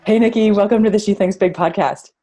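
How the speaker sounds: thin, tinny built-in mic sound; like talking in a tin can; tinny laptop mic. Real, not acted. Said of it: "So I sound like I'm in a tin can".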